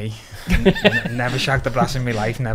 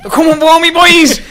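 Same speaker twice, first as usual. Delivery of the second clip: much higher, louder, laughing mock panic; panicked alarm; 13 dB louder, slower than usual. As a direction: cry out that they're coming, half laughing. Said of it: "heard it all and thought".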